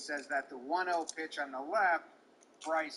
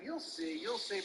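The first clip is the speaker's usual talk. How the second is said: quiet, smug taunt; 3 semitones higher, 4 dB quieter than usual. Retold or imitated. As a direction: say it like you know something he doesn't. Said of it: "smugly saying".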